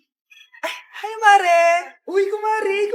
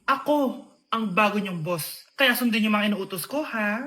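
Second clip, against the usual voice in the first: bossy; 8 semitones lower, 9 dB quieter than usual. Acted. Eldest declares self new boss.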